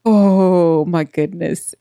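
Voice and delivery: exasperated. Retold or imitated. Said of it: "And I was like".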